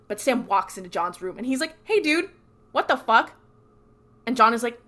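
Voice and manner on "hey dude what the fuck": louder, higher retold confrontation; pissed off. Sam walks into John's room, pissed off. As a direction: act out an angry challenge. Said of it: "he's fucking pissed".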